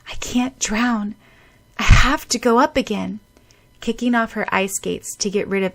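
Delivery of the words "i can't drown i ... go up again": desperate resolve. Acted. Girl underwater.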